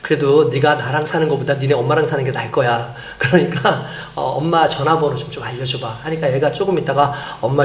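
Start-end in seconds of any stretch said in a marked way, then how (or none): 0.0-6.0 lower, mildly coaxing voice; gentle coaxing. Retold or imitated. Pastor persuades a runaway child to share mother's number, gentle coaxing. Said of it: "아이를 잘 구슬렸어요".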